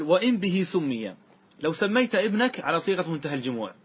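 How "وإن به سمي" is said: verse recitation. Acted. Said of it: "ثم قال".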